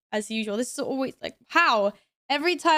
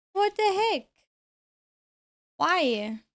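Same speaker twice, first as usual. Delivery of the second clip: pitched way up in disbelief; exasperated high yelp; 7 semitones higher, slower than usual. Real, not acted. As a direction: squeal it in outrage. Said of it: "but what the heck?".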